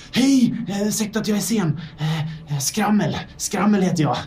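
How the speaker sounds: a flustered lab mouse apologising for being late; scrappy little mouse. Acted. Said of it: "en liten scrappy mus".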